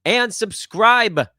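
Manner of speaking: drawn out, high and loud after a pause; dramatic, stretched-out call to action; dramatic effect. Real, not acted. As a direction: punch it slowly like a big reveal. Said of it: "pause for dramatic effect".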